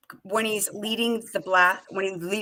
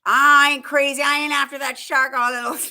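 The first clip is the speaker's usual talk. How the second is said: mock movie quote; 6 semitones higher, 7 dB louder than usual. Quoting movie line in character.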